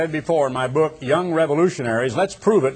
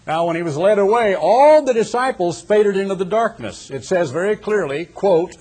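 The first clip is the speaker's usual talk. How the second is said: louder and higher, pressing the story forward; rising preaching fervor; 5 semitones higher, 4 dB louder than usual. Real, not acted. Preacher tells the congregation the disciples fled, in a rising fervor. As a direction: swell to a pulpit climax. Preacher building the betrayal scene.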